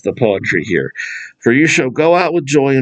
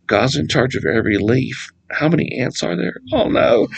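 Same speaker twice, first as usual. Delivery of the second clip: anxious worry; 3 dB quieter than usual. Retold or imitated. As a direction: voice rising into a whispered oh no. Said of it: "and go".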